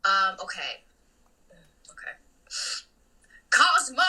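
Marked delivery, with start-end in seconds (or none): 3.5-4.0 loud cartoon scream; big scolding cartoon yell; Wanda. Shown as a demonstration. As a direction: scream it like an exasperated cartoon wife. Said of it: "only when she's screaming Cosmo".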